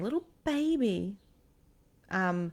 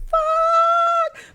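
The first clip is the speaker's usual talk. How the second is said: very high, loud drawn-out curse; panicked scream; 9 dB louder than usual. Retold or imitated. Storyteller hearing that her friend is coming right now, panicked high scream. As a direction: shriek it long in comic panic.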